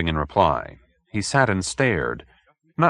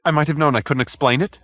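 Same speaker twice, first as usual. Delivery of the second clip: high, mild dejected murmur; a touch of defeat, to himself; unhappily; 7 semitones higher, faster than usual. Acted. Hoag giving up on the detective, mildly unhappy. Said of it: "he said unhappily".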